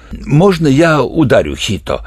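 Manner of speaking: eager, pushy request to strike; itching to hit him; impatient colonel. A narrator's reading. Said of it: "нетерпеливо спросил полковник Тхат". (нетерпеливо, другим голосом)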